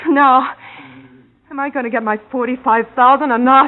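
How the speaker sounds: loud, hard, rising insistence; furious demand. Acted. Girlfriend demanding her money at gunpoint, furious. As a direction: demand your money with a gun.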